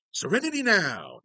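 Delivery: high, loud catchphrase cry; mock outburst. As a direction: burst out high, as if straining for calm. Shouts a catchphrase, then drops.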